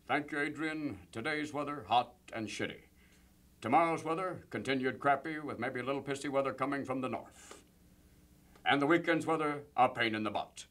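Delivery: lightly voiced deadpan weatherman; Walter Cronkite. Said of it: "Here's Walter Cronkite with the weather".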